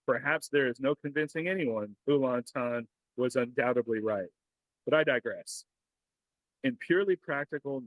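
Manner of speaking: formal reading. Acted. Reads a lore letter aloud.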